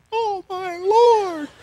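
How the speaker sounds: slow, high, lightly voiced shocked daughter; a hint of a stunned girl drawing it out; daughter's dismay. Daughter watching from the deck, mild slow dismay. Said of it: "my daughter's standing on the deck going".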